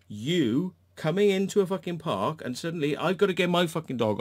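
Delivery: heated, loud ranting; angry rant. Real, not acted. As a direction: vent the frustration hard. Ranting at the other dog owner.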